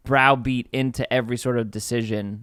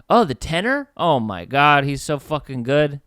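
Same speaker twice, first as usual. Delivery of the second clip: higher, louder starstruck fan voice; excited gushing; 3 semitones higher, 4 dB louder than usual. Retold or imitated. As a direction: gush like a fan who just recognised him. Fans gushing over the tenor.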